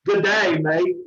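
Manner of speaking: lightly attempted Australian accent. Shown as a demonstration. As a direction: try a mild Australian accent. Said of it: "in an Australian accent".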